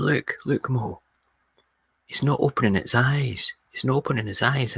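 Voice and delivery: lightly acted complaint from an upset neighbour; imitating agitated neighbour. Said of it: "he was shouting on me".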